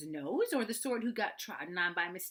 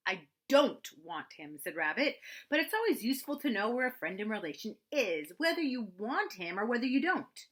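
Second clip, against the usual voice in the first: fussy, self-important Rabbit, a little higher and louder; busy, bossy rabbit speaking importantly; Rabbit's voice; 4 semitones higher, 6 dB louder than usual. Acted. Rabbit's voice for the narrator.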